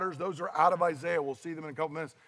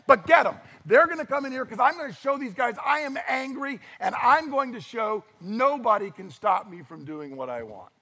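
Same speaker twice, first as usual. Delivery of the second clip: mock king's outburst; 4 semitones higher than usual. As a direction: throw it out like a tyrant showing off. King declares his anger.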